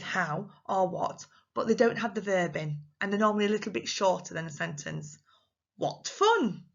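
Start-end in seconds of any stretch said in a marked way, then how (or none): 5.8-6.7 high, drawn-out delighted exclamation. Shown as a demonstration. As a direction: exclaim it high, then let it fall. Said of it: "You can have exclamations".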